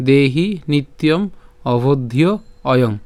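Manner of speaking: measured Sanskrit verse in short phrases; deliberate model reading of the verse; joined recitation. Shown as a demonstration. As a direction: recite each word whole, with pauses between phrases. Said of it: "আমরা একসাথে উচ্চারণটা করব".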